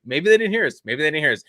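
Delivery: mildly panicked wishful thinking; anxious praying. Retold or imitated. Dad hoping the English riders missed it, anxious praying. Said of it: "like, praying".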